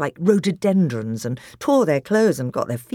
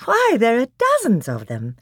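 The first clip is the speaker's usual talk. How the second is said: put-on girl's voice; 8 semitones higher, 4 dB louder than usual. Susan marvels.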